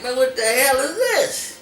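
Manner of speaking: slow, high, loud retold shout; shocked anger. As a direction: drag it out like you can't believe it. Catching girlfriend with friend.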